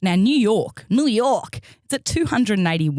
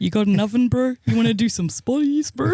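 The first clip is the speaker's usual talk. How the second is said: put-on Kiwi accent; 6 semitones higher than usual. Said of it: "doing the Kiwi accent".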